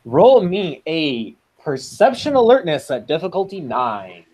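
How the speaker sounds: gleeful, swooping game-master call; too excited. Real, not acted. Game master asks players for a perception roll, too excited. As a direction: ask for the roll with a big audible smile. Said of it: "I probably sounded way too excited for that".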